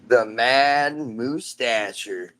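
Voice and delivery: slow drawn-out announcer intro; lightly hammed-up showman intro. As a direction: stretch "The Mad Moustacher" out like a ring announcer. Announcing son's silly character name.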